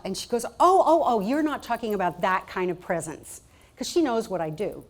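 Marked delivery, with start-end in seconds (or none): 0.5-3.4 mom's sudden realization. Retold or imitated. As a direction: catch the mistake mid-sentence and laugh. Mom realizing her mistake.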